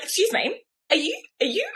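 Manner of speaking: a touch of a bothered teacher stopping a parent; huffy teacher. Retold or imitated. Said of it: "she's walking along in a huff".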